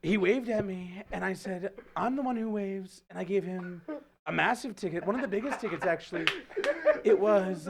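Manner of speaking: boastful presidential impression, savouring each phrase; comic politician voice with self-satisfied asides; Trump. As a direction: impersonate the politician telling a brag. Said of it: "by chanting Trump".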